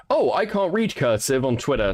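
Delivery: lightly mocked whine of online commenters; mock complaint. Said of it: "But people were like".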